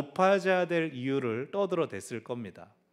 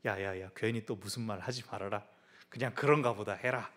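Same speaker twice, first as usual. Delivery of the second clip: softer, low whispering caution; hushed warning; 5 semitones lower, 5 dB quieter than usual. Retold or imitated. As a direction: warn a friend under your breath. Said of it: "제자들이".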